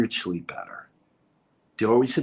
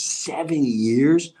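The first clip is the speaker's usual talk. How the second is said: incredulous echo; much slower than usual. Real, not acted. Echoes in disbelief.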